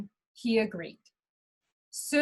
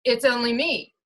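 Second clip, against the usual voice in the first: medium goat voice; 4 dB louder than usual. Acted. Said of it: "in his medium-sized voice".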